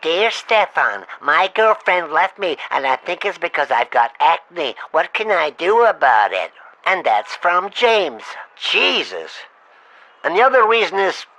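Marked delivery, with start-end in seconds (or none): 0.0-6.5 mocking caller letter. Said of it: "can't stand his fucking voice".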